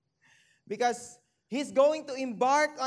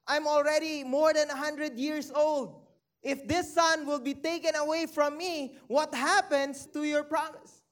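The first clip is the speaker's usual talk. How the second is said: questioning God; 4 semitones higher than usual. Retold or imitated. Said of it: "if we would tend to question God".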